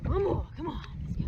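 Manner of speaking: eager urging; pumped up, willing it on; psyching myself up. Real, not acted. Urging the fishing line on.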